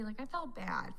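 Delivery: soft unvoiced confession; whisper. Real, not acted. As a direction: whisper it sadly.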